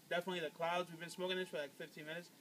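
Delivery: talking around hookah mouthpiece; speaking before a hookah pull; hose at mouth. Real, not acted. Seen 0: Right-hand man holds the hookah mouthpiece at his lips while talking.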